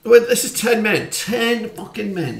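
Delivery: loud, high and indignant; outraged shout. Real, not acted. Manager shouting about going down to ten men, outraged. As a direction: rant at losing a man.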